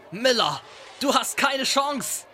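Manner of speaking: high, slow taunting call. Acted. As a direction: challenge the rival across the car. Calling out rival in train.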